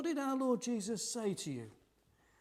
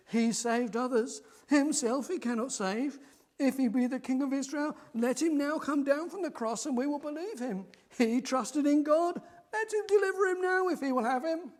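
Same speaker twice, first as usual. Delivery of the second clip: loud, higher scornful jeer; mocking priests; 5 semitones higher, 7 dB louder than usual. Chief priests jeering at Jesus on the cross, loud scorn. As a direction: sneer down at the crucified man. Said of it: "the chief priests mocked him".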